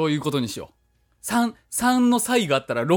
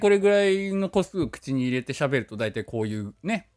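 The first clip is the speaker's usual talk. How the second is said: talking with cheeks stuffed full; 3 semitones lower than usual. Real, not acted. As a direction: mouth full of chestnuts. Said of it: "何個か口に入れた状態で今喋っております".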